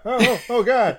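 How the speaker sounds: high, loud, laughing bug panic; big-eyed bug voice. Pretend. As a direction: shriek like a startled bug. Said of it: "That's the big ass eyed bug voice".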